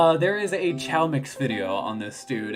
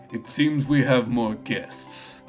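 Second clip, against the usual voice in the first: composed ninja detective; 3 semitones lower, slower than usual. Acted. Voices Espio addressing Vector.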